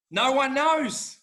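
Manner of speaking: slow, high and loud "no one knows"; emphatic. Real, not acted. Auctioneer telling the host nobody can predict prices. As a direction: stretch it out for effect. After laughing at the question.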